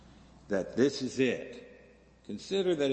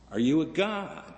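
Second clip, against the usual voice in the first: eager questioner; 6 semitones higher, 4 dB louder than usual. Acted. People question the Buddha.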